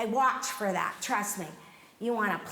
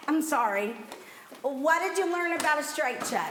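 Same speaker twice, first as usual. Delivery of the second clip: ordinary delivery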